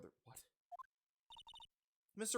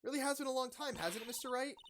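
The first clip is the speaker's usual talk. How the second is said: much higher put-on woman's voice; voiced Adrian; 10 semitones higher than usual. Adrian greeting Mister Wright, higher woman's voice. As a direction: lift it well up, wistful.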